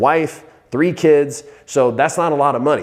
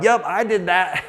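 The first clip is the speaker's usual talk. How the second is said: laughing boast; 7 semitones higher than usual. Retold or imitated. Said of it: "I'm like".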